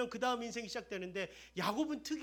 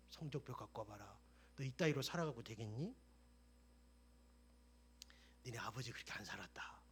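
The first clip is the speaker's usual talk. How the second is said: stern grandfather; 8 semitones lower, 7 dB quieter than usual. Acted.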